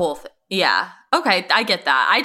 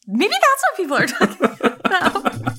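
laughing; 9 semitones higher than usual. Real, not acted. Teased about looking like doll.

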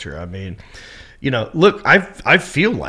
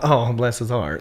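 mock pity with a slight drop; feigned sympathy; 4 dB quieter than usual. Southerner disguising trash talk as pity, falsely sympathetic. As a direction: say it as a veiled put-down. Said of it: "it's just the way they say it".

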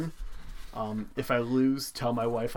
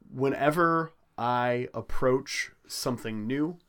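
mock-earnest speech. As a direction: deliver it like a solemn personal creed, pausing often. Mock-earnest speech building to a movie quote.

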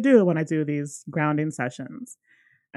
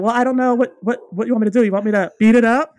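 joking offhand offer; 5 semitones higher, 7 dB louder, faster than usual. Retold or imitated. D's joking offer, voiced.

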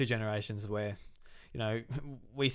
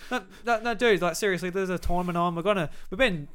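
mock pleading; 7 semitones higher, 5 dB louder than usual. Pleading with the villain.

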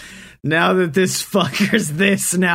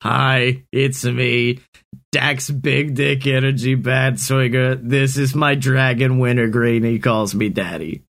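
deep, lower put-on intro voice; low voiced hero; 6 semitones lower than usual. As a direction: introduce yourself in a low swagger.

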